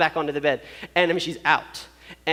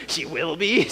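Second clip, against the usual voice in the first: disbelieving questioning repeat, rising at the end; mildly mock-alarmed "will be?"; incredulous echo; slower than usual. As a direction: echo it back as a doubtful question. Repeats the lady's reply in disbelief.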